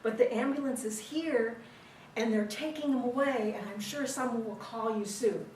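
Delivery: hint of a mock British accent; British woman. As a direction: lightly imitate the British lady explaining herself. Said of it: "it's the British lady".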